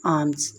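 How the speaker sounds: आम्स said as ahms, L left silent. Shown as a demonstration. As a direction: say आम्स with no L sound at all. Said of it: "इसमें एल को खामोश रखना है".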